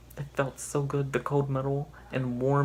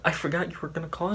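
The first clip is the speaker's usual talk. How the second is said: giggling; 4 semitones higher, faster than usual. Retold or imitated. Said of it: "she said, giggling".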